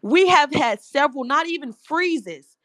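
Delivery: real agitation, pressing the point; worked up. Real, not acted. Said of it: "I'm getting worked up".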